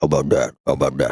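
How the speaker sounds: low Jersey mob boss voice; Tony Soprano impression. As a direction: do it like a gruff Jersey mobster. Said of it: "I've genuinely been saying that".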